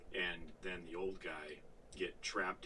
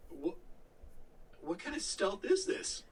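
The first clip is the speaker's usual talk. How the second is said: mock disbelief; 10 semitones higher than usual. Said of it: "I was like".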